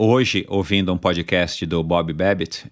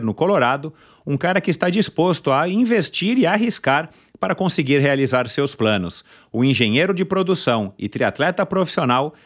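upbeat podcast host intro; announcer intro; 5 semitones higher than usual. Acted. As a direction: build up to the guest's name. Announces the guest's biography.

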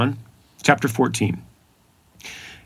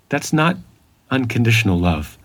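mock yell. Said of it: "He yells it".

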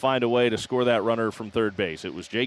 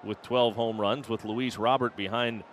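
rising excited home run call; play-by-play call. Acted.

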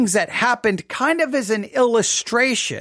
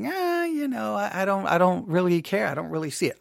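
bored shrug; 4 dB quieter than usual. Pretend. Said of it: "others are like".

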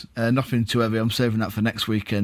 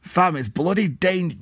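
put-on higher, botched West Country accent; West Country attempt; 5 semitones higher than usual. Co-host retrying fan post, botched West Country accent. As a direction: have one more stab at West Country, then break off. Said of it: "no, let me try it".

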